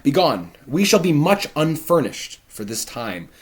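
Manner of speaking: loud, high blustering father; Capulet. Acted. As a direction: bark it out as the bossy lord of the house. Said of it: "He says".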